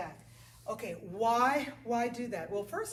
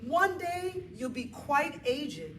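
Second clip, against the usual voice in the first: higher and louder, emphatic; 5 semitones higher, 4 dB louder, slower than usual. Shown as a demonstration. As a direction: lift it up with enthusiasm. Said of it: "I want my clients to be happy about that".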